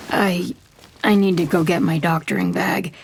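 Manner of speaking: shaken, halting start; stammering. Acted. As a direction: stumble over the first word. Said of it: "he stammers".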